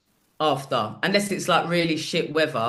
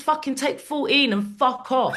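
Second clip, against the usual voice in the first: laughing retort; 8 semitones higher than usual. Retold or imitated. Comic dismissing the drunk friend with a laughing put-down. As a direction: land the comeback.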